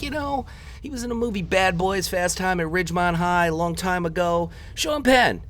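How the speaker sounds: high-pitched mock explaining, rattled off; exasperated explaining. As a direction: act out spelling it out for a clueless friend. Acted exasperated explaining to German friends.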